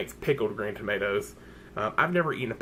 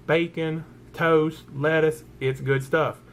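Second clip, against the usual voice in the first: hammed-up Southern twang; Southern accent; 3 semitones higher, slower than usual. Selling viewers on the sandwich, playful Southern accent. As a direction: list it with a down-home Southern accent. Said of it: "I know that's terrible".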